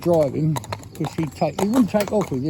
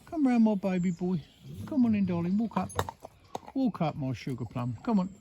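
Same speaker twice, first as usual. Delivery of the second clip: gentle coaxing; 2 semitones higher, 6 dB quieter than usual. Real, not acted. To the uptight horse: gentle, soft coaxing. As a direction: ask him again gently.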